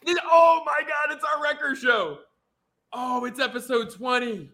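high, loud excited yelp, slowed at the start; excited outburst. Real, not acted. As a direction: shout it out, thrilled about the milestone. Excited about episode twenty.

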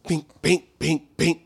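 short, evenly spaced "bink" sounds; imitated ball strikes. Friend mimics golfer hitting balls like clockwork, imitated pings. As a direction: tick off clean hits like clockwork.

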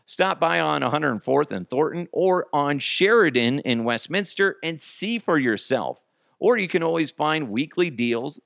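upbeat sponsor pitch; quick, bright host-read ad. Acted. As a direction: sell it like a radio spot. Reads sponsor ad.

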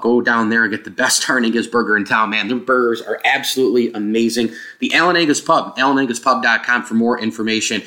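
hollow, roomy mic sound; like recording in a big empty room; echoey open sound. Real, not acted. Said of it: "if you heard kind of an echoey open thing".

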